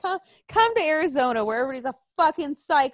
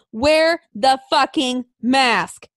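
loud, drawn-out order; blunt demand; 6 dB louder, much slower than usual. Retold or imitated. Speaker retelling what they tell unmasked shoppers, blunt demand. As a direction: punch out each word slowly and forcefully.

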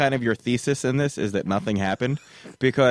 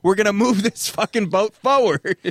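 mock relief; 5 semitones higher than usual. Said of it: "I was like".

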